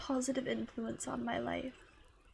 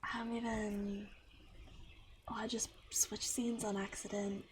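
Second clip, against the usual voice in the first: whispered aside, a bit lower; flustered whisper; 4 semitones lower, 4 dB quieter than usual. Real, not acted. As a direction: murmur the slip under the breath. Flustered stream mistake.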